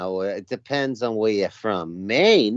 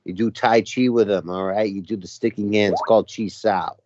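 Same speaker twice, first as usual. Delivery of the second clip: Boston accent. Shown as a demonstration. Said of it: "The Boston accent is sort of like".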